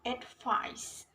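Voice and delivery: "advice" stressed on its second syllable, VICE. Shown as a demonstration. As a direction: put the weight on the VICE of "advice". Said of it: "second syllable are like".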